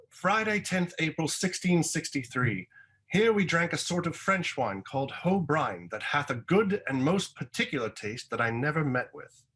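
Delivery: high-pitched mock seventeenth-century diarist; put-on period voice, high and swooping; Samuel Pepys. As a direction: read it as a grandly hammed-up old diary entry. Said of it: "Samuel Pepys impression that I'm about to do".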